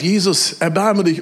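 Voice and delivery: high loud plea for mercy; crying out. Retold or imitated. Blind man calling out to Jesus, high and loud. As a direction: shout it out, begging. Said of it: "Der schreit".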